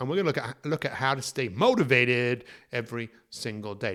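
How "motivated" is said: motivated raised, in a loose American accent. Podcast intro about staying motivated, American accent on motivated. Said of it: "the way I said motivated in a kind of an American accent".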